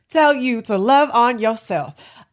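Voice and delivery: laughing. Real, not acted. Answer right after a laugh.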